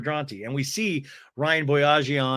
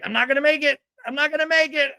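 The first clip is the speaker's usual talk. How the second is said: mock panic; 12 semitones higher, 4 dB louder, faster than usual. Recapper acts Tamara racing to a toilet, mock panicked wail. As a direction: whine in comic desperation.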